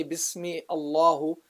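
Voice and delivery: "Bismi Allahu" as two words with heavy L; wrong, unjoined. Shown as a demonstration. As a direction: break before "Allahu", say it thick. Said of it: "You don't say".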